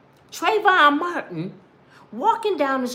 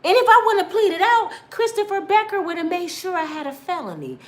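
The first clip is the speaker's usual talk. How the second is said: real tears; 5 semitones higher than usual. Real, not acted. To the audience about the prosecutor, crying. Tearful retelling of forced plea.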